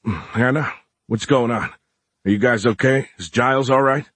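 groggy, just-woken slur; slurred sleepy voice. Acted. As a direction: slur it like you were fast asleep. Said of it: "then a slurred voice".

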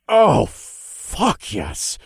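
high, slow ecstatic cry; delighted squeal. A narrator's reading. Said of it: "squealed with delight".

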